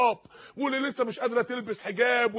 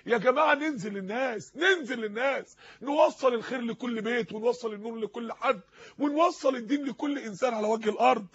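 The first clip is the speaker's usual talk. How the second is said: rousing preaching. Real, not acted. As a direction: urge the crowd on, phrase by phrase. Preacher exhorts his listeners. (وعظ حماسي بإلحاح)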